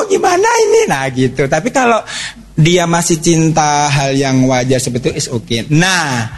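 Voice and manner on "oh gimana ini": much higher, panicked little cry; alarmed mother. Retold or imitated. Mother hears her daughter likes a girl, high alarmed cry. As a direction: squeak it out like a worried mum.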